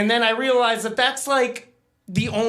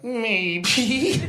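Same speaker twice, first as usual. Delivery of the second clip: mock shout; 3 semitones higher than usual. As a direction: blurt it out, half laughing. Sheepish shouted answer.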